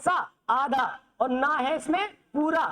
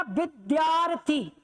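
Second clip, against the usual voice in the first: slow demo reading; much slower than usual. Shown as a demonstration. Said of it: "इसमें क्या आ रहा?".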